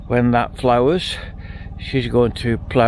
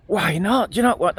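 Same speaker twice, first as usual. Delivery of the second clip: higher, pushier imitation of the scammer; a hint of a slick con man, raised pitch; mock eager scammer; 6 semitones higher than usual. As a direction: play the hacker lightly, keen to sell the link. Retold scammer persisting.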